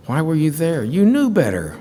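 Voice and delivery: sharp pretend reproach from a wife; imagined scolding. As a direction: voice the wife who would have scolded.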